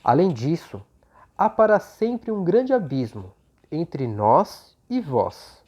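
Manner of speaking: measured, solemn reading voice; scripture reading. Acted. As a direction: read the parable slowly and earnestly. Reads the parable aloud.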